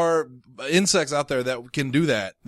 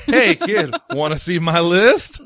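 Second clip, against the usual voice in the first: creepy stranger voice; 4 dB louder, slower than usual. Pretend.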